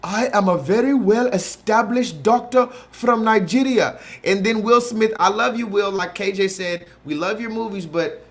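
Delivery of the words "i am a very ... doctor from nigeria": mock Nigerian accent. Mocking Will Smith's Nigerian doctor role in a loud Nigerian accent. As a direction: shout it in an overdone Nigerian accent. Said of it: "This nigga said".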